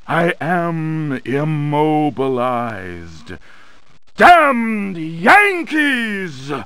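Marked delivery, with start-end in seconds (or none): 4.2-6.5 higher, slow, drawn-out curse; a sorcerer's venomous outburst, dragged slowly; bitter curse. Acted. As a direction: curse the Yankees with hatred. Villain curses his captors.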